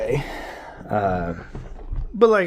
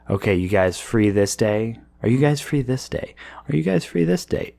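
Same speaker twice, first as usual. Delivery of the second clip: rising repeated question; 2 semitones higher than usual. Retold or imitated. Retelling repeated scheduling asks.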